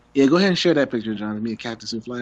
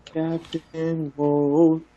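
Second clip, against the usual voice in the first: very slow, higher dramatic name call; superhero announcer voice; 5 semitones higher, much slower than usual. Pretend. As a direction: stretch the hero name out epically. Hero name proclaimed, very slow.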